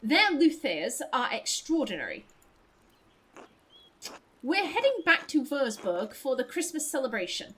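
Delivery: lightly played posh traveler. Musician introducing his partner to a townswoman, lightly posh. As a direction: introduce yourself in a mild posh accent. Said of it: "I'll give you posh voice".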